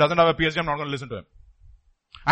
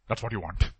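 soft repeat; 10 semitones lower, 9 dB quieter than usual. Real, not acted. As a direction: drop "That's what you want" low and soft, falling on "That's". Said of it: "repeated loud then soft".

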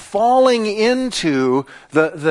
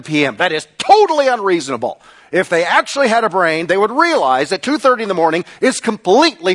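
lightly hammed-up teenager's complaint; mock teenage indignation. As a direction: protest like an outraged teen over curfew. Acts out indignant teenager against curfew.

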